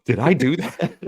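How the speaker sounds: high nasal-free nerdy squeak, hammed up; Steve Urkel. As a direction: do the sitcom nerd caught in a mistake. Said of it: "Steve Urkel".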